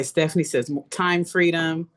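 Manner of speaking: ordinary delivery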